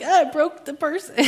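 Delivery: high, loud comic alarm, tipping into a laugh; mock dismay. Speaker joking about making a woman cry, mock dismay. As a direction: play up the horror for laughs.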